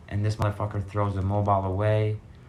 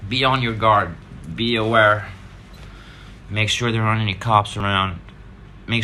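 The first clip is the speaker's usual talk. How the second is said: louder, pressing words of caution; urgent warning; 4 dB louder than usual. Real, not acted. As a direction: hammer the warning home. Final warning to viewers.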